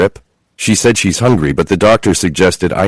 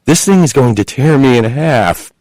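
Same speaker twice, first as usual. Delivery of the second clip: high pained moan; 7 semitones higher than usual. A narrator's reading. Chloe in labour moaning to her husband. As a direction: moan it through the pain. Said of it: "she moaned".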